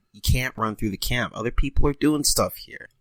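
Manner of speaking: loud, exasperated telling-off; scolding. Retold or imitated. Telling Brian off for running through camp, loud scolding. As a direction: lay down the camp rule loudly.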